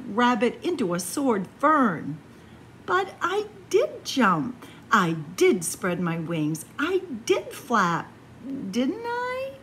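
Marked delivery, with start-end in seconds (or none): 2.8-9.5 DID stressed each time; insisting. Acted. Warren pleading that he did fly, stressing did. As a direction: press on every did. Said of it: "Warren insisted".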